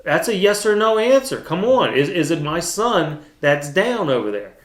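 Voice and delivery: heated, insistent retelling of a parent's demand; retold upset. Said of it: "got pretty upset with her".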